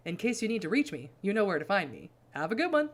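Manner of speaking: hammed-up, hearty character voice; coked-out Gary Busey. Carter excusing himself to leave, theatrically hearty. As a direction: open loud, then breezily sign off. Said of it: "That's the voice I have to give him".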